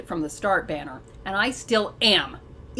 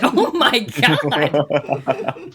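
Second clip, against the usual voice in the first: laughing; 7 semitones lower, much slower than usual. Real, not acted. Laughing aside.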